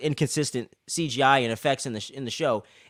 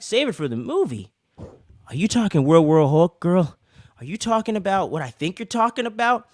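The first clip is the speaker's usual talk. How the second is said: excited disbelief; 4 semitones higher, 4 dB louder than usual. Retold or imitated. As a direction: hype fan asking if it's really World War Hulk. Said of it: "We're like".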